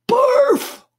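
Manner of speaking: high, loud exclamation of disgust; hammed-up sickened cry; disgusted aside. A narrator's reading. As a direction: blurt it out, revolted.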